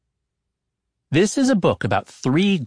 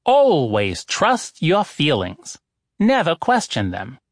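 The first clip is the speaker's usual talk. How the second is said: slow, weighty oracle's "always trust your feelings"; oracle's pronouncement; 3 semitones higher, slower than usual. Acted. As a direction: hand down the rule slowly like an oracle. Oracle states second rule.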